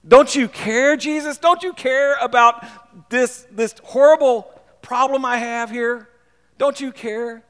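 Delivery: high, slow, hammed-up whining complaint; whiny Martha. Martha whining to Jesus about her horrible problem, hammed-up and high. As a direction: drag it out like a sulky sister.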